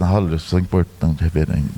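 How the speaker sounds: mock self-important. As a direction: savour your own importance. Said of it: "é até gostoso".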